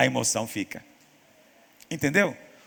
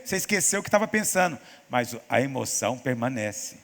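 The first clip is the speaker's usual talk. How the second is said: ordinary delivery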